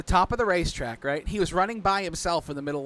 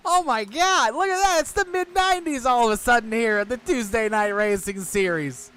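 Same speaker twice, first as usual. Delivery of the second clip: high, loud nostalgic delight; excited; 6 semitones higher, 4 dB louder than usual. Real, not acted. Fan delighted the car looks mid nineties, high and loud. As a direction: gush with excitement.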